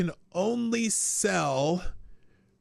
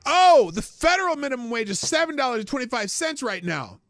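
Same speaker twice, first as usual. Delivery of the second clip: mocking echo; 6 semitones higher, 5 dB louder than usual. Repeats clip line to mock.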